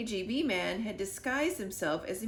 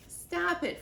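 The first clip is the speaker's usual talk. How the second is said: higher, sharp stop it; scolding the dog; 9 semitones higher than usual. A narrator's reading. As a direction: tell Freddie off. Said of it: "I said".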